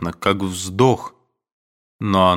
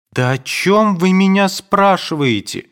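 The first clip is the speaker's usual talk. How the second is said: sudden high, louder flustered cry; flustered question; 11 semitones higher, 4 dB louder than usual. A narrator's reading. Nadenka to Aduev, startled into a high flustered cry. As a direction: blurt it out, caught off guard.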